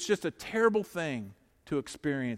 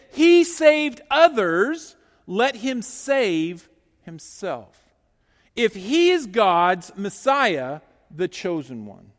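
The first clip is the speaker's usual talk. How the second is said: slow, loud mocking jeer; sneering rulers; 3 semitones higher, 9 dB louder, slower than usual. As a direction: jeer at him slowly and loudly. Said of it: "the rulers even sneered at him".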